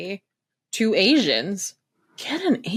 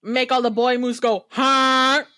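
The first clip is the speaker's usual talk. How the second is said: quoted line; 4 semitones higher, 3 dB louder than usual. Retold or imitated. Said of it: "my favorite line that I quote".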